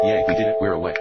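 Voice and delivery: loud, happy whoop; excited cheer. Acted. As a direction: cheer in triumph. Escape succeeds, cheering.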